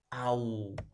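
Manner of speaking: "aullido" as au... lli... do, with long gaps; split into syllables. Shown as a demonstration. Teacher divides the word for students, "aullido" syllable by syllable. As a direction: say "aullido" in three isolated beats, au held together. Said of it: "Eso sería".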